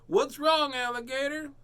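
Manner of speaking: high, loud concerned cat; high worried question; Pete asking. Acted. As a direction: call out high and caring.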